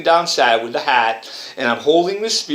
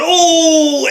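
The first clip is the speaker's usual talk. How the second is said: shocked cry; 8 dB louder than usual. Retold or imitated. Figure in painting cries out.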